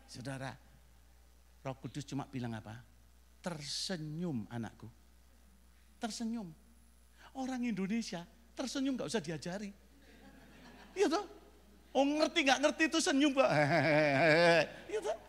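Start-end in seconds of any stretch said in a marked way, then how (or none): 3.4-6.5 soft, slow and drawn out; calm divine reassurance. Retold or imitated. Holy Spirit answering a nervous traveller, calm reassurance. 13.5-14.9 loud forced chuckle; mock clueless laugh. Nervous traveller covering not understanding, mock laugh. Mimes smiling without understanding.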